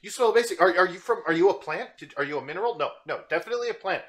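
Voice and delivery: high, bubbly chatter of an overeager cat; excitable cat girl voice. Acted. Roxy the cat introducing herself to Garth, high and excitable. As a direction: gush like a hyperactive kitten meeting new friends.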